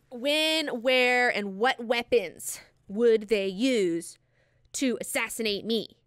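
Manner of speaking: slow, declamatory delivery of each word; grand interrogation. Retold or imitated. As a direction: pronounce "When, where" as loud, separate, drawn-out demands. Alia's question redone after interruption.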